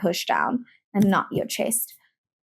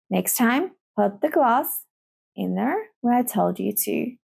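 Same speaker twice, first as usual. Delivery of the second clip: calm. Shown as a demonstration. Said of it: "you can calmly say".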